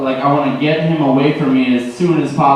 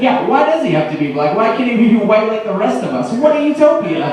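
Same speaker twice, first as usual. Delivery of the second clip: mock sarcastic agreement; 6 semitones higher than usual. Sarcastic comeback to the hippie.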